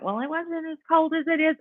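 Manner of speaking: lightly put-on know-it-all; mock northern commenter. Scoffing at Tennessee cold, mock northern commenter. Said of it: "anyone from up north starts to comment".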